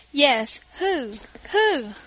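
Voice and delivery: put-on child pestering with a question; eager questioning. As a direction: press the question impatiently. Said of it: "questioned Louis".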